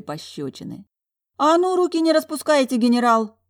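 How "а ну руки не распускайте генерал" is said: high, loud furious roar; roaring at the general. A narrator's reading. Talya roaring at the general to keep his hands off, furious. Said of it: "взревела Талья".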